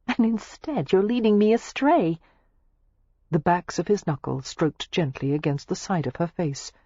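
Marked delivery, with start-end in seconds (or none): 0.1-2.2 grinning. A narrator's reading. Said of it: "she said with a grin".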